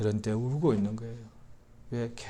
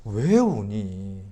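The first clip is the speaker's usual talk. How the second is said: gentle question; 4 semitones lower, much slower than usual. Acted. Angel gently asks Mary.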